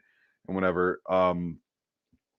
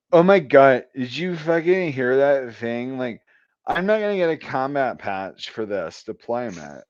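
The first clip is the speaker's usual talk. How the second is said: higher mock-whiny griping voice; whiny complaining; 3 semitones higher than usual. Female specialist complaining to a friend, mock-whiny tone. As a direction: play a spoiled soldier whining, lightly mocking. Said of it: "she starts bitching".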